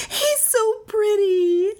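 high, slow fawning coo; high-pitched doting squeal; gushing admirer. A narrator's reading. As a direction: coo high and drawn out at a pet. Fat woman gushes over dog.

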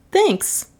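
high-pitched brief thanks; high heroine voice; voiced female client. A narrator's reading. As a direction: toss it off in a high voice. Heroine's short acted reply.

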